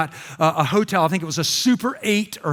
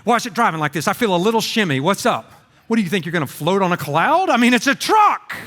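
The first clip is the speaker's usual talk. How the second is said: exasperated wife. Retold or imitated. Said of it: "Giovanna's like".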